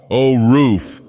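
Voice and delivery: rapturous awakened cry; rapture. Acted. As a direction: greet the sunlight like a gift. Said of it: "in a voice of rapture".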